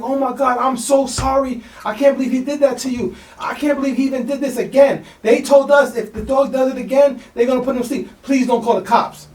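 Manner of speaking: high, pleading panicked mother; frantic mom. Retold or imitated. Dog owner begging the salesman not to call the cops, high and frantic. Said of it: "she's like".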